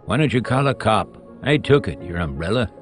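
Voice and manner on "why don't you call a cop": raised-pitch taunt; provoking dare. Acted. Soapy daring the umbrella man, provoking. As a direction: goad him lightly.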